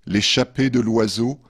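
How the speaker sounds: measured poetry reading with pauses between verses; poem reading. Acted. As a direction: read each verse line apart, letting it settle. Reads third poem after musical break. (lecture de poème posée)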